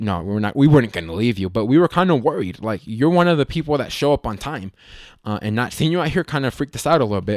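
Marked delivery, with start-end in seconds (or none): none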